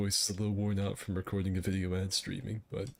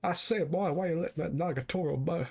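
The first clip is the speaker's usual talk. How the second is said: southern blowhard; 9 semitones higher, faster than usual. Acted. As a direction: holler like a pompous rooster. Blustering southern rooster bit.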